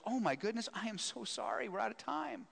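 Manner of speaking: surprised how late it got, pour out apologies; gushing apology. Retold or imitated. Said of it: "she looks at her watch and she goes".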